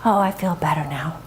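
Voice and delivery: lightly voiced low wolf; low, easing wolf voice; relieved wolf. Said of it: "the wolf says".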